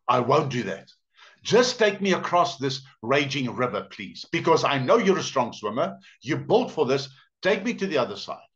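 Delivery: mildly urgent acted pleading; insistent wheedling, lightly voiced; pleading snake. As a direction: beg as the storybook snake. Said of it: "The snake pleads with him".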